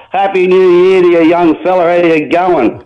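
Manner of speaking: loud, cheery on-air hello; a big loud hello to the host on the phone line; hearty loud greeting. Real, not acted. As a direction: boom out the New Year wishes.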